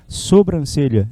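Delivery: sobrancelha said slowly and carefully, syllable by syllable; slow demo pronunciation. Shown as a demonstration. Teacher drilling the spelling to students, slow and careful. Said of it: "Mas olha pra cá".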